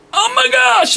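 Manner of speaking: very high, squealed amazement; awestruck crowd. Retold or imitated. Everyone watching Day climb the glowing tower, awestruck.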